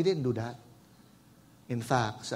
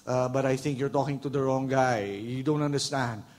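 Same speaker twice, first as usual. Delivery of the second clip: timid apology; slower than usual. Pretend. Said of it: "You know what he was saying?".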